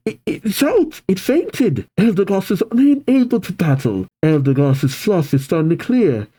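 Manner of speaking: high-pitched stadium announcer. Acted. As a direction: call it out to the crowd. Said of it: "The announcer says".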